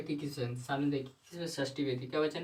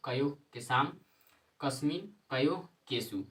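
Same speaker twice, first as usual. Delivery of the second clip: reciting the declension table. Shown as a demonstration. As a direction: chant the table out for the class. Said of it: "फटाफट आपको संस्कृत पढ़ के बता देते हैं". (शब्द-रूप का लयबद्ध पाठ)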